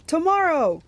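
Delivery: loud, high single-word demand; forceful monster ultimatum; monster command. A narrator's reading. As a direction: insist as the impatient monster. Monster haggles.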